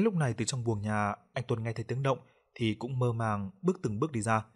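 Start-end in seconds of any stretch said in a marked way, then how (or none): none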